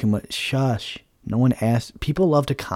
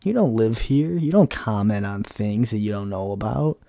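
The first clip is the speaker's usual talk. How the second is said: mock nagging mom; 2 semitones higher than usual. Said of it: "She's like".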